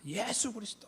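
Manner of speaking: high crowd cry, not at full volume; imitated calling out. Youths answering who judges us, high imitated call. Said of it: "이렇게 불러요".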